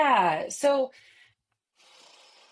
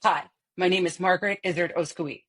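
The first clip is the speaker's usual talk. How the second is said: masculine speech pattern. Shown as a demonstration. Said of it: "So you're gonna get a lot of this".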